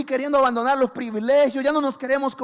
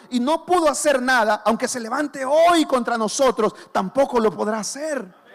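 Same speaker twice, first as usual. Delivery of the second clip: fiery preaching; 3 semitones higher, 3 dB louder than usual. Acted. Preaching builds, loud.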